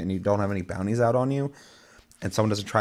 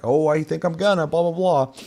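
higher-pitched voice for the prospector; gold panner; 8 semitones higher, 4 dB louder than usual. Retold or imitated. Voicing the prospector in retold chat.

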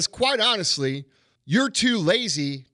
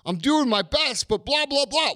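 lightly voiced needy complainer, higher pitch; mock pleading emailer; 5 semitones higher than usual. Host imitating people who email for help, mock pleading. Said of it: "people emailing me and saying".

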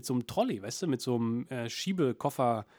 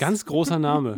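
drawn out and loud, ganz großer Name slow; slow, loud grand announcement; big announcement; 8 dB louder, slower than usual. Acted.

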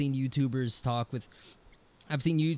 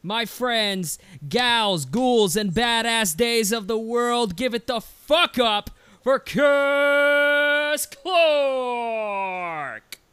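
shouted, rising much higher and louder; hype announcer shout; 7 semitones higher, 7 dB louder, much slower than usual. Acted. Host hyping the guest's entrance, full announcer shout. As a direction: bellow the name like a ring announcer. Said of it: "I start with this intro".

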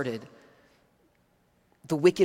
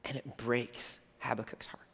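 hushed whisper; 4 semitones lower, 8 dB quieter than usual. Real, not acted. Preacher to congregation, in a hushed whisper. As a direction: whisper it, heartbroken. Grieving over the prophet's heartbreak.

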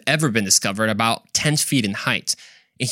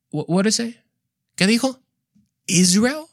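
high stunned questions; playful shock, pitched way up; astonished; 9 semitones higher than usual. Acted. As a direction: gasp out disbelief at Israel. Acted astonishment at inscription.

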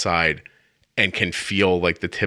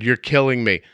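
raised, higher pleading yell; yelling at the dogs; 4 semitones higher than usual. Retold or imitated. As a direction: yell out into the cold backyard. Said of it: "now I'm yelling in my backyard".

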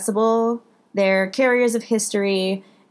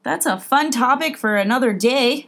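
phone voice; 4 semitones higher than usual. Acted. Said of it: "It was very Midwestern".

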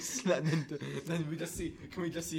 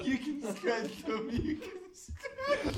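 high squeaky voice; 12 semitones higher, much slower than usual. Acted. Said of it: "That sounds like a singer later".

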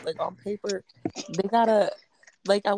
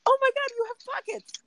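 much higher and louder, gushing; goofy excitement; 4 dB louder than usual. Retold or imitated. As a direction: gush over it like the best news ever. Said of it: "I want him to be like".

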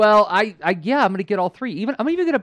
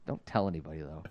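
hushed; 14 semitones lower, 14 dB quieter, faster than usual. Real, not acted. Confessional aside.

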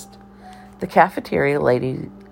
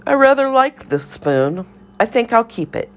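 high-pitched dotty cafeteria lady admiring her spoon; bird lady; 9 semitones higher than usual. A narrator's reading. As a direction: croon over the spoon, high and delighted.

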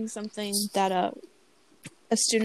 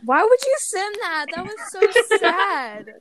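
laughing; 6 semitones higher, 6 dB louder than usual. Real, not acted. Reacting to sad video.

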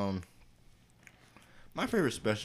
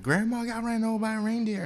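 mock family explanation; 14 semitones higher, 5 dB louder than usual.

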